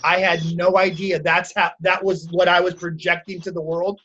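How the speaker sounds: imitating a remorseful client, low and subdued; tearful apology. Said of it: "She started crying, and she's like".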